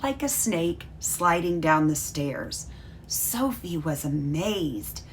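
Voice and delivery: lively storybook read-aloud for a class; reading a story to children. Acted. Teacher reading Felix's letter to her class, storybook voice. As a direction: read the letter like a bedtime story, bright and clear.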